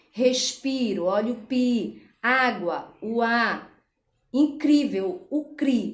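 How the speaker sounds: respiro, água, incrível stressed on pi, á, cri; stress on penultimate syllable. Shown as a demonstration. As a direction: show each stress, then isolate it: pi, a, cri. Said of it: "a sílaba tônica é a penúltima". (respiro, água, incrível com ênfase em pi, á, cri)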